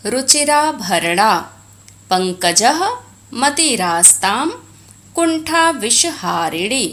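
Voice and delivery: each Sanskrit word said separately and distinctly; careful pronunciation. Shown as a demonstration. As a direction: pronounce word by word, as for practice. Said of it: "pronounce the following words properly". (शुद्ध, स्पष्ट उच्चारण)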